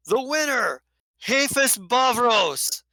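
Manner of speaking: loud, high ringing announcement of the winner; announcer yell. Acted. Crowd caller announcing the arm wrestling winner, shouting. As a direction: bellow the champion's name across the bar. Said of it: "yells out".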